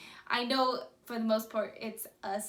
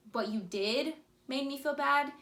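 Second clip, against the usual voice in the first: calm ownership; 4 semitones higher than usual. Shown as a demonstration. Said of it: "But when you're saying".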